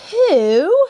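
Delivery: high, loud startled "Who?"; startled squeak. A narrator's reading. Little girl startled by a strange voice, high squeak. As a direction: jump up high in surprise.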